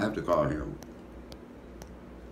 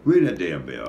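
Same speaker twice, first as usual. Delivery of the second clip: emphatic call; 7 dB louder than usual. Pretend. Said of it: "I supposed to do the bell last".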